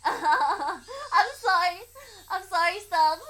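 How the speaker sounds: slow, tearful sorry with a high voice; a child crying and begging; tearful sobbing girl; sobbing apology. Acted.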